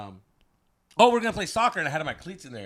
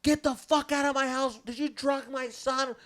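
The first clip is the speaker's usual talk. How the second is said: high, raised-voice mom impression; mock outraged mom; 10 semitones higher, 5 dB louder than usual. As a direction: order them out as an irate mother. Mom throws them out.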